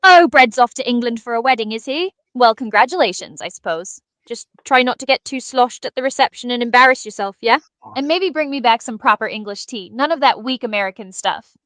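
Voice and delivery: put-on AI voice putting on a light British accent; a mild posh British accent for the wedding tips; lightly done British accent. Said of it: "grace him with your, uh, British accent".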